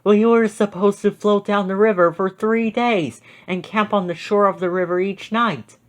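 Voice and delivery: a hint of a young camper telling her tale; Gemma's voice. A narrator's reading. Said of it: "Gemma said".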